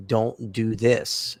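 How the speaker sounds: slow, deliberate word of caution; measured warning. Retold or imitated. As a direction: spell it out slowly as advice.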